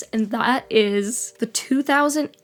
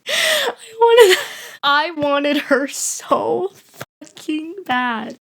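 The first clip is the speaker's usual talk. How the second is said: voice breaking; 6 semitones higher, 4 dB louder, much slower than usual. Real, not acted. Craving Brittany toy, voice breaking.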